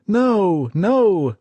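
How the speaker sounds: high, loud shouted no; men refusing their captain; yelled refusal. Acted. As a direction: shout it from every corner. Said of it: "men yelled".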